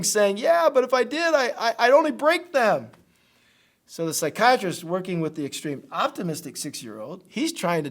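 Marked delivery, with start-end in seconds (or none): 0.4-2.9 mock crying child. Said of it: "the kid is just crying".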